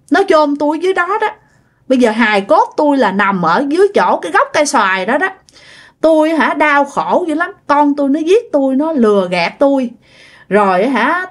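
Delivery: put-on a high, pleading voice, like a weeping old ghost; lightly voiced sad ghost begging not to be taken; tearful pleading ghost. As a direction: beg the monk, a touch tearful. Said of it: "vừa nói vừa khóc mà nghe tội nghiệp".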